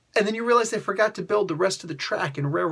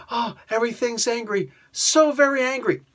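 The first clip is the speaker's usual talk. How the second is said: mocking Raven; 4 semitones higher than usual. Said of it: "mocking Raven's line".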